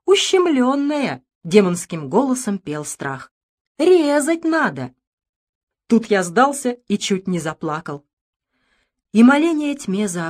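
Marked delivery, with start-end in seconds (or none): 3.8-4.9 high, slow and ominous; a voice of dread hissing its verdict; fear's demon voice. A narrator's reading. Narrator voicing fear's sinister whisper.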